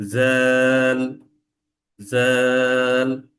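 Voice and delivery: জ্যাল held on one steady tone, tongue at teeth; long buzzed জ্যাল. Shown as a demonstration. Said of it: "যেমন". (জিভে চাপ দিয়ে লম্বা জ্যাল)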